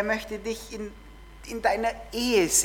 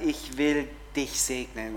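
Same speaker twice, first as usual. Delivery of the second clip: slower, softer promise; tender; 6 semitones lower, 5 dB quieter than usual. Shown as a demonstration. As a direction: say it gently and slowly. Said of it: "und Gott sagt".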